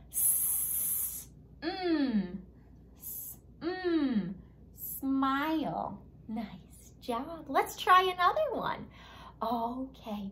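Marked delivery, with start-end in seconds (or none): 0.1-6.0 "S", "mm", then "smile" blended; blending smile. Shown as a demonstration. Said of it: "Say the S sound with me".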